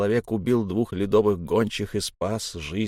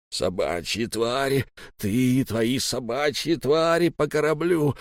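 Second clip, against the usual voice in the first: hissing rage; 3 semitones higher than usual. Acted. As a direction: hiss it out with hatred. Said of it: "прошипел силач".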